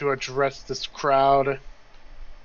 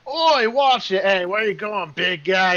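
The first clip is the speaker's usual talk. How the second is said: raised, high-pitched heckling; jostled crowd; 5 semitones higher, 4 dB louder than usual. Acted. Crowd objects to being pushed aside, loud high complaints. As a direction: call out in protest as someone shoves past. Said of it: "you just hear a lot of".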